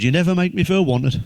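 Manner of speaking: lifted, lightly acted reproach; quoted complaint. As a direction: imitate a partner's grievance.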